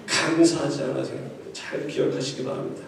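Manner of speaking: low, soft congregation response; modelled response. Acted. Preacher shows congregation how to answer, low modelled response. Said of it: "하면서 이럴 테니까요".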